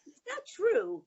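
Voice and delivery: retold scolding protest. Mother denying her son's story, retold scolding protest. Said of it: "that's how I yelled at the".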